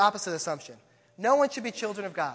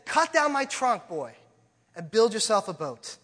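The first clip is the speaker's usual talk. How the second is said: pleading tree; 3 semitones higher, 5 dB louder than usual. Acted. Self-giving tree voiced in story.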